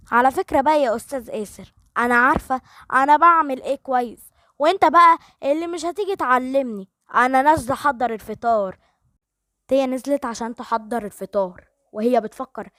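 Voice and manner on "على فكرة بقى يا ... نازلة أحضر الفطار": louder, sassy comeback; defiant retort. Acted. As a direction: put him in his place. Tia snaps back at Aser.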